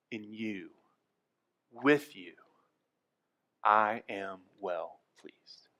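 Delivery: slow, breathy whisper of love. Pretend. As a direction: whisper it slowly, like a blessing. God's loving words, whispered.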